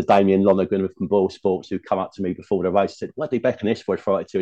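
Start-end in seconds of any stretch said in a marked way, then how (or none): 3.1-4.4 put-on light, half-hearted Irish accent; a passing stab at an Irish accent; bad Irish accent. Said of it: "bad Irish accent there".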